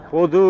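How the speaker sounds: பொது with the last "oo" lengthened and rising; final vowel shown. Shown as a demonstration. Teacher testing a word's vowel sound for students, drawn-out pronunciation. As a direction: draw out the end of பொது. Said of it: "ஊல ஆரம்பிக்குதா".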